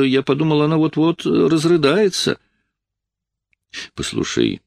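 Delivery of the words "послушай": tenderly. Acted. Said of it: "ласково сказал я".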